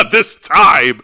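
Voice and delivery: laughing retort. Real, not acted. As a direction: say it through a laugh.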